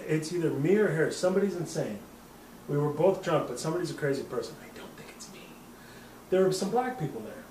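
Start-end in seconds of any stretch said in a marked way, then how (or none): 4.6-5.4 whispered under breath; whispered aside. Real, not acted. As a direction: throw it away as a whisper. Muttered aside.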